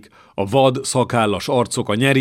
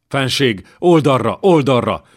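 urgent shout to the king to turn aside; a knight yelling at his king to flee; bellowed warning; 4 semitones higher, 5 dB louder than usual. Acted. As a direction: bellow it like a battlefield order. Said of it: "bődült fel Jósvai".

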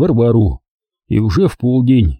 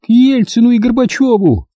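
cynical rudeness; 11 semitones higher than usual. A narrator's reading. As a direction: sneer it back rudely. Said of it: "цинично схамила женщина".

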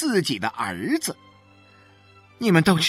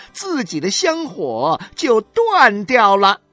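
high, mocking jeer, slowing to a loud sting at the end; sneering taunt; 12 semitones higher, 5 dB louder than usual. A narrator's reading. 许玉兰 taunting 何小勇's wife, high sneering jeer. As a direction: sneer it out, twisting the knife. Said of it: "她也冷笑了起来".

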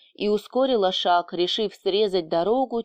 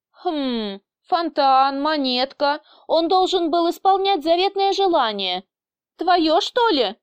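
musing, climbing to a higher surprised question; dawning realisation; 7 semitones higher than usual. A narrator's reading. Boss works out whose wish it was, dawning realisation. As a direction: piece it together, then catch on. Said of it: "дошло наконец до начальника".

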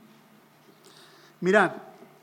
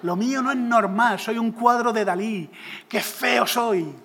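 mock crying. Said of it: "me encontráis llorando en una esquina".

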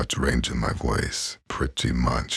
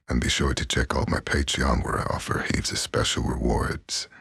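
unvoiced whisper. Real, not acted. Plugging her Patreon to viewers in a whisper. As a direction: breathe it like a secret.

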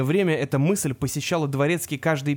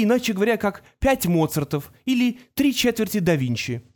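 put-on smug genius boy; 4 semitones higher than usual. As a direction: boast like a smug prodigy. Artemis boasts, narrator voicing.

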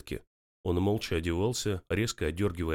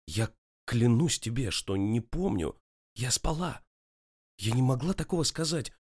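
higher, tearful plea rising to a cry; holding back tears; 5 semitones higher than usual. A narrator's reading. Girlfriend pleading with her angry boyfriend through held-back tears. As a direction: swear it, fighting back tears. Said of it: "выкрикнула она, едва сдерживая слёзы".

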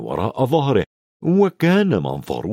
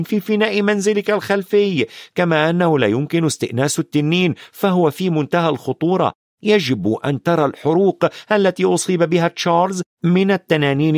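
put-on higher-pitched, insistent boy; lightly voiced boy Ron; 6 semitones higher than usual. Ron objects that dragons are illegal, lightly voiced insistent boy. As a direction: object earnestly in a lightly raised boy's voice.

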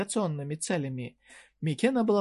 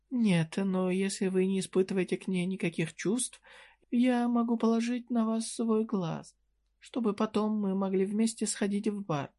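flirty merchant woman; 5 semitones higher than usual. Acted. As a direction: tease him with a playful offer. (кокетливый голос торговки, выше и медленнее)

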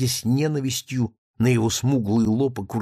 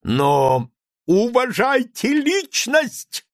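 high, loud, very slow, every word hammered; angry interruption; 11 semitones higher, 4 dB louder, much slower than usual. A narrator's reading. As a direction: cut him off, spelling it out in fury. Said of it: "перебил его Лаевский". (гневно перебивая, медленно и громко)

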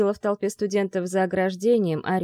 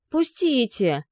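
insistent plea; 6 semitones higher, much slower than usual. Acted. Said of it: "настойчиво рванулась Соня".

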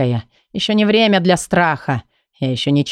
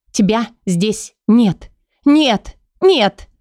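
desperate denial; 6 semitones higher, much slower than usual. Acted. Лейла в отчаянии отталкивает Кая, срываясь на крик. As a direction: push him away, breaking into pleading. Leila rejects him, rising to cries.

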